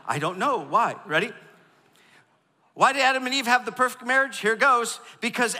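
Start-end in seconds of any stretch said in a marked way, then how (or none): 0.1-0.9 louder prompt. Shown as a demonstration. Pastor prompting the crowd to repeat it louder. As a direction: say it louder this time. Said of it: "Go ahead".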